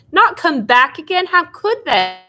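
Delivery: horrified narrator questioning aloud; shocked disbelief. A narrator's reading. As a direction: gasp it out in disbelief.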